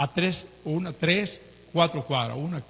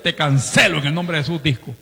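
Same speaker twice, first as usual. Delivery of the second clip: rebuke; 7 dB louder than usual. Retold or imitated. Rebuking the disco while driving past.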